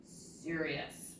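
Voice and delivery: low, soft serious tone. Shown as a demonstration. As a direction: say it low and solemn. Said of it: "Give me that serious face".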